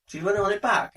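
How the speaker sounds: high-pitched imitation of someone who kept the bag; mock borrower. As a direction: send up the borrower's casual question. Mimicking borrower's casual reply.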